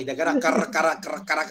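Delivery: kara said over and over, trying the r; mock lisp on r. Shown as a demonstration. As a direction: drill the r in kara. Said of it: "R to iu moji ga ienai".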